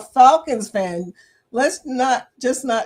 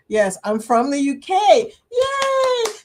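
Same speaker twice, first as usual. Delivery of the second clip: cheering shout, the Yay much higher; excited cheer; 9 semitones higher, 4 dB louder, slower than usual. Real, not acted. Streamer cheering a UK viewer's comment, loud and excited.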